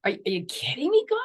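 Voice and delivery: a hint of a whiny teenager; mild mock teen protest, rising; lightly voiced sulky teen talking back to God. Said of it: "it's probably like a teenager".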